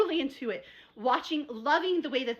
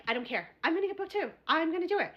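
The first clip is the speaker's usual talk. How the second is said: stubborn resolve; 6 semitones higher than usual. Retold or imitated.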